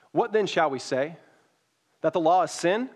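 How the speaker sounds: measured, earnest Bible reading; scripture reading. Acted. Pastor reading Romans to the congregation, earnest reading. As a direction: read the passage to the congregation with weight.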